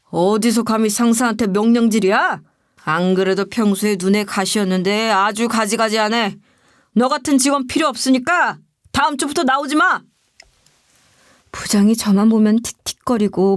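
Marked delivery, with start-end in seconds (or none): 0.1-10.0 acted, contained anger at a subordinate; angry outburst. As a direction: scold like an offended boss, volume held in. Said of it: "갑자기 화를 내면서 이러는 거예요". (화내는 상사 말투)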